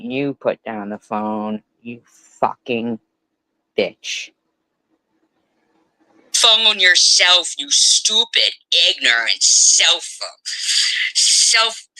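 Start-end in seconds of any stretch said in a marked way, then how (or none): 6.3-11.9 high, loud, slow enraged yell; furious shout. Real, not acted. Daughter screaming back at her mother, enraged yell.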